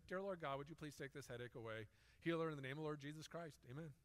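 praying softly under the breath; quiet prayer. Retold or imitated. Chaplain praying quietly over the teacher's headache. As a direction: keep the prayer low and hushed. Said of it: "Just quietly".

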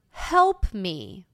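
understated plea for help; alarmed cry. A narrator's reading. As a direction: plead with a touch of alarm. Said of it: "I cried in alarm".

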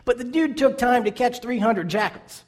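excited, incredulous emphasis; amazed. Real, not acted. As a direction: marvel out loud at the effort. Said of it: "amazed retelling".

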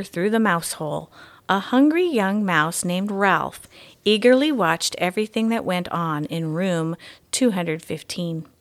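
gentle, even read-aloud storytelling; story narration. A narrator's reading. Mystery reader reading the chapter to schoolchildren, storytelling voice. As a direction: read it like a bedtime chapter book.

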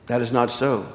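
acted composed angel; calm denial. Angel calmly denies it.

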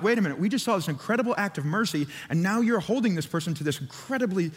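mildly indignant, quick objection; mock indignation, picking up pace; riled up. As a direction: protest as a riled-up onlooker, lightly acted. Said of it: "They were riled up".

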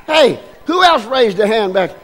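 high, loud, teasing question; playful quizzing. Real, not acted. Preacher teasing the congregation about bird salt, high playful questions.

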